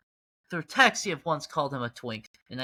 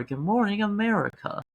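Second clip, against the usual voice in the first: higher, brighter morning show greeting; radio host voice; 4 semitones higher than usual. Pretend. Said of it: "my first time doing that voice".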